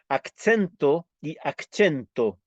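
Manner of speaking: accento first with ts, then accento with ch; slow contrast of two sounds; contrasting pronunciations. Shown as a demonstration. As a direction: slowly set the two accento sounds side by side. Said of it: "en español ambas es acento".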